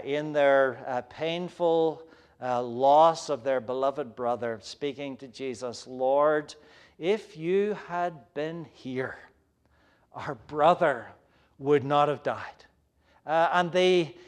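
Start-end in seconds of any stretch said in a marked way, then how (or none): 5.9-12.6 grieving. Acted. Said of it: "in their grief, in their sadness".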